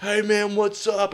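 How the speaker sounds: high, drawn-out friendly greeting; high goofy bloke voice. Retold or imitated. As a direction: sing it out high and slow like a big friendly bloke. Leader greeting him.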